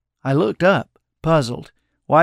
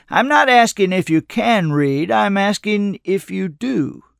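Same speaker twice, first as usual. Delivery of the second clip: higher, deliberate contrast of can and do; pointed emphasis; 5 semitones higher than usual. A narrator's reading. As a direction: stress on CAN, then DO. Old man clarifies his question.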